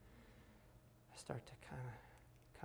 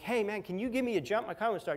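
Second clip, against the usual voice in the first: higher-pitched mock call for help; urgent request; 5 semitones higher, 3 dB louder, faster than usual. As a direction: flag down a stranger for a favour. Calls to stranger for help.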